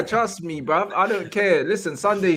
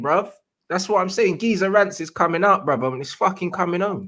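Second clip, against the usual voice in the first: put-on London geezer accent. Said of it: "you're gonna do the accent the whole stream".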